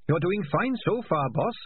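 squeaky eager little rat; perky high-pitched rodent. Acted. Dancer rat voice.

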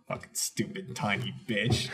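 low, near-whispered swearing; muttered insult. Retold or imitated. Heckling a storyteller, muttered under breath.

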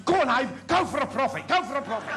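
cheering mate. Acted. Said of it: "His mate said".

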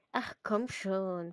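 slow, drawn-out plea; pleading. Acted. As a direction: beg her, stretching the words. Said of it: "flehte Ginny sie an". (langsam flehend)

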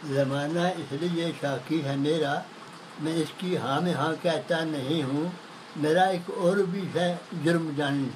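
measured Urdu verse recitation; poetry recital. Acted. Poet reciting to an appreciative listener, measured poetry recital. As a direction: recite it line by line, like at a mushaira.

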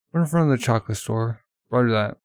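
loud radio report; officer radio chatter; police radio reply. Acted. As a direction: confirm over the radio.

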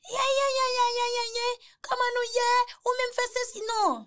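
hammed-up authoritative boss voice; booming boss greeting. Shown as a demonstration. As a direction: greet the room like the big boss in charge. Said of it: "Ou santi otorite nan vokal la".

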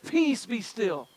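said slowly, settling the storm; slow, measured peace be still; slow and calm command. Shown as a demonstration. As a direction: let each word still the waves. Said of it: "He said".

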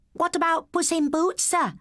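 put-on high boy calling from back; cheeky question to teacher; schoolboy voice. A narrator's reading.

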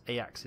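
Ajax said EYE-ax, with a soft Y sound; Dutch pronunciation. Shown as a demonstration. Gamer names the Dutch club, Ajax said EYE-ax. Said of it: "is a Dutch football club".

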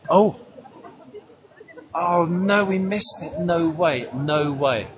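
high, loud mock fluster; flustered panic. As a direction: squeal in a hammed-up panic. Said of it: "You'd be like".

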